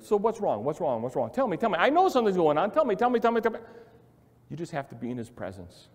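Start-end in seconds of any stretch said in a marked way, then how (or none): 0.0-3.6 mock nagging. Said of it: "hammer you with".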